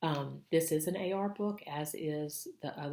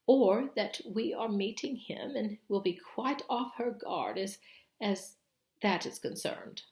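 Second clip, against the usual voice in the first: anxious Missus Beaver; 5 semitones higher, 4 dB louder than usual. Acted. Missus Beaver warning the children, high and worried. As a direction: lay out the danger, fretting.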